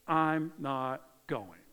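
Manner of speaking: slow, emphatic blunt refusal; blunt, arrogant refusal. Acted. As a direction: refuse Dad word by word, slowly. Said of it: "told his dad so bluntly and arrogantly".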